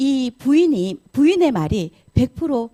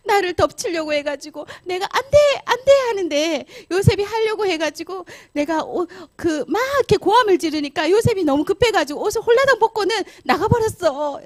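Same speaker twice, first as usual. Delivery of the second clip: high, overdone victim's wail; lying, play-acted distress; 8 semitones higher than usual. Wife lies to her husband about Joseph, hammed-up distress. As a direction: plead your false story in mock panic. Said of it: "이러면서 거짓말을 했어요".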